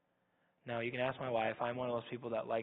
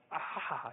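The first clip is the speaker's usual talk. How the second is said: drawn-out "ah" of exasperation; imitating an overwhelmed wail, not full force; mock freak-out cry; 3 semitones higher than usual. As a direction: let out a mock anguished "aah". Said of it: "he's kind of freaking out".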